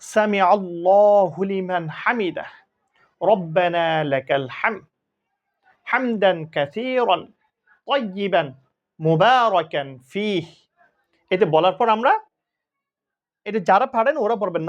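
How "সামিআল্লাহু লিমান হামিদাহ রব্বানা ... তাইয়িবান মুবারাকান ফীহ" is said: slow, drawn-out Arabic recitation; prayer recitation. Shown as a demonstration. Teacher recites the prayer for students, slow and drawn out. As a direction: chant each word slowly and clearly for learners. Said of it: "যখন বলবো".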